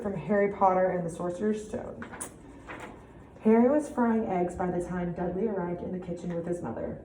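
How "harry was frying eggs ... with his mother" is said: measured storybook reading with clear pauses; story narration. A narrator's reading. Teacher reads Harry Potter to pupils, expressive narration. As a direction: read fluently, emphasizing key words. Listen to how I read this story.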